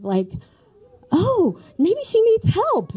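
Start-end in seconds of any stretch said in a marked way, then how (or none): 1.1-2.9 fretful aunt. Retold or imitated. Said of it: "she still thought".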